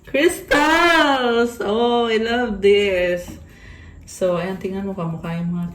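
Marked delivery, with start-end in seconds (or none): 0.0-3.4 high, loud cry easing into a slow gush; real excitement, drawn out; delighted exclamation. Real, not acted. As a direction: squeal it out, then savour it. Delighted at drawing crystals card.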